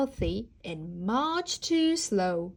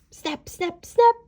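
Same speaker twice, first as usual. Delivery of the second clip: snapping jaws; 8 semitones higher, 7 dB louder than usual. A narrator's reading. Wolf lunging at Octavia, loud final snap. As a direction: build to a loud last snap.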